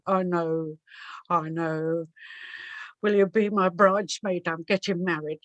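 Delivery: lightly voiced hangdog convict asking a favour; Charlie's voice. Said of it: "Charlie speaking".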